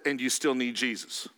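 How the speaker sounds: low, soft, quiet God voice; a gentle deep correction from above. Pretend. God answering the smug preacher, low and quiet. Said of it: "And then God says".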